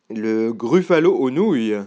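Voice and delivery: a restrained cry of horror; alarmed cry. Acted. Gruffalo learning he is to be eaten, mildly alarmed cry. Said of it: "cria le gruffalo".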